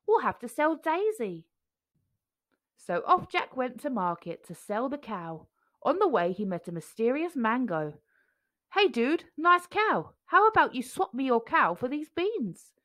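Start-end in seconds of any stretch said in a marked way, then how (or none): 0.1-1.5 Jack's mum. A narrator's reading. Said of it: "said Jack's mum". 8.7-12.7 laid-back dude. A narrator's reading. Mysterious mango voiced.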